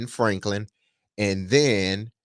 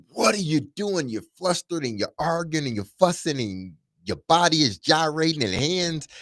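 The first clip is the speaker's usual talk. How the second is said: higher, mildly exasperated retold rant; mock upset; 5 semitones higher than usual. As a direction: act out a flustered first reaction. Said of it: "our first instinct is to just get upset".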